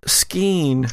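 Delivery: whispered through tears; tearful whisper. Acted. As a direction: breathe the name out, barely voiced. GM voices Allison crying whisper.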